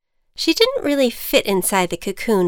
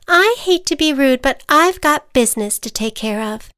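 higher, louder prim butterfly; 6 semitones higher, 5 dB louder than usual. Acted. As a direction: politely dismiss the pest. Butterfly brushes off the ant.

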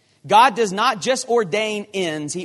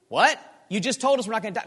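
baffled outrage; 5 semitones higher, faster than usual. Acted. Crew baffled again.

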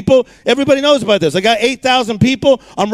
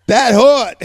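laughing quip. Retold or imitated. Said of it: "I'm like".

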